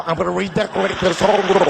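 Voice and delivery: prank caller speaking through water; wobbly, burbling words as if submerged; bubbling underwater voice. Acted. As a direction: gargle the line like you're underwater. Same bubbling gag continues.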